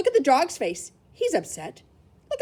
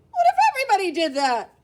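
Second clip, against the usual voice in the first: mock stern zookeeper, a bit louder; zookeeper scolding; 8 semitones higher, 6 dB louder, faster than usual. Zookeeper scolding a boy who fed the bear, stern. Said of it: "The zookeeper waved his broom and said".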